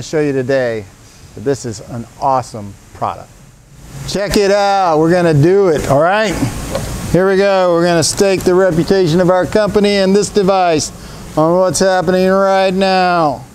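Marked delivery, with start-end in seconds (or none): 4.1-5.0 hyped-up showman call; carnival barker. Acted. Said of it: "Do I sound like a carnival barker?". 5.0-13.4 loud hyped showman pitch; carnival barker. Acted. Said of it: "Do I sound like a carnival barker?".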